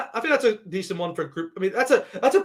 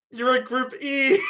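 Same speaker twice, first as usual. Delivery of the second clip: excited announcement; 4 semitones higher, slower than usual. Real, not acted. Tells fans their team's group.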